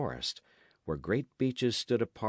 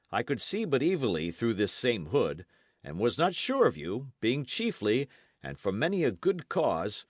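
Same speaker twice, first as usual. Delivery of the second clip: animated knight recounting his ruse; a hint of a hearty old campaigner; lightly voiced knight; 4 semitones higher, 4 dB louder than usual. Knight telling the lads of his disguise, lightly animated character voice.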